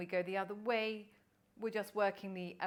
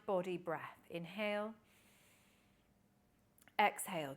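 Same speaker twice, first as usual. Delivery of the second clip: guided breathing cue. Shown as a demonstration. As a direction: draw out the breath calls gently.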